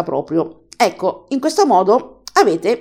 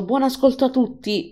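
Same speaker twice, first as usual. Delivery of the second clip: softer, lightly imitated murmur; 3 semitones higher, 5 dB quieter than usual. Host imitating the reader's sign-off to all, lightly murmured. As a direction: lightly mimic a hushed sign-off. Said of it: "mormorò".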